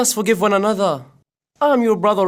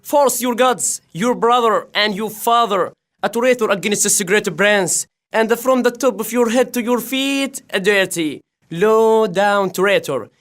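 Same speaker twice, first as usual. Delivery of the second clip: higher, forceful denouncing knight; angry accusation; 5 semitones higher than usual. Acted. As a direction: hurl the charge of traitor at him. Edgar accusing Edmund before combat.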